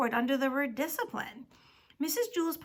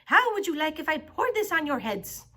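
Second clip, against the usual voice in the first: raised, taunting voice; menacing threat; 4 semitones higher, 5 dB louder than usual. A narrator's reading. Teacher holding brine over the class, threatening. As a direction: threaten them loudly with relish.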